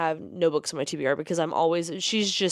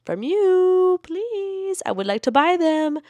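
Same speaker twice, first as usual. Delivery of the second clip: high, pleading squeak to a publisher; begging plea; 12 semitones higher, 4 dB louder, slower than usual. Real, not acted. Pleading with Fairy Loot for editions, a high begging squeak.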